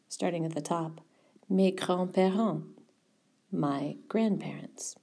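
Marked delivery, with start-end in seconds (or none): 1.5-5.0 mes grands-parents slowly, the English half whispered; slow model. Shown as a demonstration. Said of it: "Notice how it switches".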